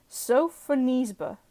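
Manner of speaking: "Sophonisba" slowly sounded out; careful pronunciation. Real, not acted. Reader unsure of an artist's name, "Sophonisba" said slowly and carefully. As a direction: try out "Sophonisba" with care, stretching its syllables. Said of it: "did I pronounce that right?".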